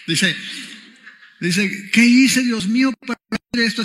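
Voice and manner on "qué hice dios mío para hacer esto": mock anguished outcry, higher and louder; crying meme baby. Preacher imitating a crying baby asking God why, mock-anguished. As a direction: wail it lightly, imitating distress. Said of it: "Está un bebé llorando".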